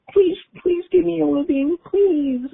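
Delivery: very high, crying mock plea; mock pleading cry. Telling viewers how interviews feel, a hammed-up crying plea. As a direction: beg like a desperate wailer, hammed up.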